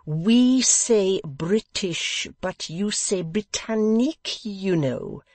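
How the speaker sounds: host indulgently excusing the guest; forgiving. A narrator's reading. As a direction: pardon him kindly but from above.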